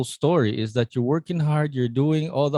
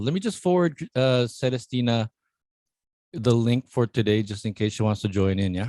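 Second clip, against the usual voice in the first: mouth full. Real, not acted. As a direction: still chewing while talking. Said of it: "I'm talking with my mouth full".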